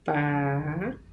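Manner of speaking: "Parabéns" split into pa, ra, béns, long gaps; syllable by syllable. Shown as a demonstration. Teacher separating syllables for students, "Parabéns" slowly broken into three pieces. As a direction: stretch each syllable of "Parabéns" separately, softly. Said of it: "separação de sílabas".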